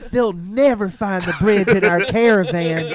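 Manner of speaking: loud, laughing mock Romanian gypsy accent. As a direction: ham up a Romanian gypsy boast. Joins in the gypsy bit.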